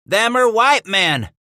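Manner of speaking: slow, high, loud shout of alarm. Acted. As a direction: call it out in shock. Man at stockade shouting alarm.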